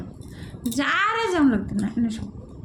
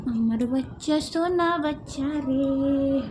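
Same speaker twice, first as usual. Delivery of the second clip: slow, softer doting words; tender pet talk; 2 semitones lower, 3 dB quieter, much slower than usual. Real, not acted. Cooing to the cat as her baby, slow and tender. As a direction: dote on the cat, drawn out slowly.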